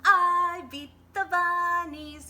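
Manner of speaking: high, loud, slow victory whoop. Acted. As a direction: crow with joy. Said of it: "he whooped".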